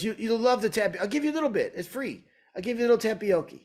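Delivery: high-pitched, insistent coaxing, "tapioca" said as tapioki; imitated coaxing owner. Owner pressing free dessert on a customer, high and coaxing. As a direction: imitate an eager host pushing a treat, pitched well up. Owner coaxes her to taste.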